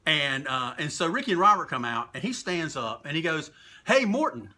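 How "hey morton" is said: higher-pitched, punchy mock heckle; retold heckle. Fan taunts a wrestler from the front row, mock heckle. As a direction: call it out like a ringside heckler.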